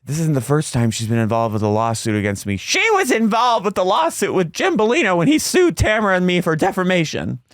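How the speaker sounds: high, hammed-up indignant voice; mock Shannon. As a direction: rise up high in outrage. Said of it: "quoting Shannon".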